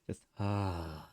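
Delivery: heavy annoyed exhale; long aggravated sigh. Acted. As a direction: sigh it out, fed up. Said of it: "one of those long, aggravated sighs".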